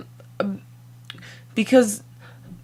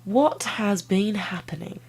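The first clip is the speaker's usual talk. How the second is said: whisper; 5 dB quieter, slower than usual. Pretend. Unvoiced slow whispered question.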